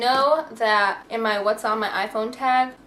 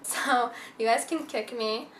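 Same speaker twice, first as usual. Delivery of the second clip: laughing. Real, not acted. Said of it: "not literally".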